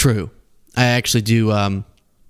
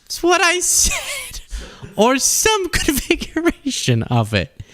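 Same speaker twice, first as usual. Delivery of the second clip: mock defensive. Mock defensive after botching a word.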